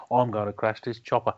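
Michael Caine impression. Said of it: "impersonations of Michael Caine".

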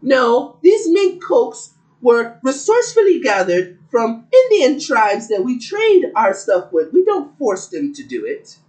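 high, hammed-up British accent, slow on the scolding; mock British accent. Host mocking the royal family's defence, in a mock British accent. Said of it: "was that not a good accent?".

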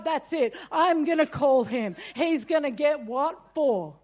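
retold resolve to call him; firm, fed-up decision; mild mock fury; determined anger. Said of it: "and so I'm like".

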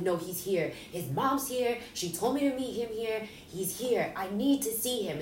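reliving a heated demand to be let in; retold bugging out. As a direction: insist frantically without a full scream. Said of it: "screaming and bugging out".

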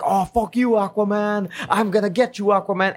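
high whiny villain rant; mock angry villain. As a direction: whine the threat like a sore loser. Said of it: "he's like".

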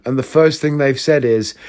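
ordinary talk

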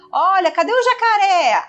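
put-on high, sing-song voice asking a toddler; parent to toddler. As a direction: lift the voice to coax a little child.

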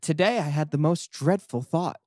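lightly voiced whiny God diary; a hint of a petty God writing his diary; reading as God. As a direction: read it as a self-pitying deity, lightly acted. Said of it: "God says".

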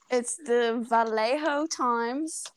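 slow, deliberate "Vallejo" with a Spanish J; spelling out "Vallejo" slowly to get it right; careful Spanish pronunciation. Shown as a demonstration. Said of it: "I'm gonna be really good at pronouncing this 'cause it's Spanish".

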